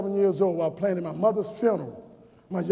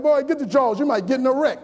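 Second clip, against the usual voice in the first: scolding mother; 4 semitones higher than usual. Retold or imitated.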